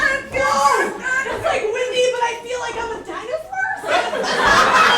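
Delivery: giddy glee. Acted. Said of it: "struck by a very powerful emotion".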